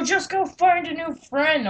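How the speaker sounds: high, drawn-out mock whine; mocking imitation. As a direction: stretch it out like a sulky friend. Imitating the upset friend's reply.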